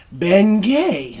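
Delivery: "Gay" drawn out after "Ben"; stress on Gay. Acted. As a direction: lean on the word "Gay", stretching it. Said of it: "Emphasis on the word gay".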